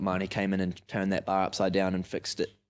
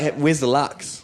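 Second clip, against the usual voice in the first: slow, asking; 6 semitones higher, 7 dB louder, slower than usual. Retold or imitated. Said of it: "I was like".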